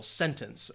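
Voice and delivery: "sentence" with the weight on SEN; stress on first syllable. Shown as a demonstration. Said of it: "would be on the first syllable".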